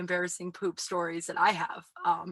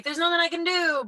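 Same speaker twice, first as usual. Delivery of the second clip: mock helplessness; 10 semitones higher, 8 dB louder than usual. Voices a helpless attitude they reject.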